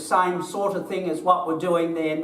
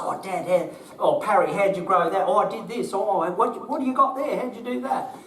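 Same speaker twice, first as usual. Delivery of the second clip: put-on higher, eager voices of two old gardeners swapping tips; two old mates chatting; 5 semitones higher than usual. Imitating Dad and his mate asking each other about their plants, eager. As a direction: play both friends, keen and curious.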